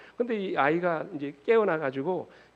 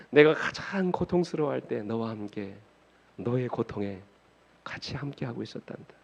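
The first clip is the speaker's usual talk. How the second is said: put-on lower, slowing reassurance to a child; consoling father; 4 semitones lower than usual. Father consoles his crying son.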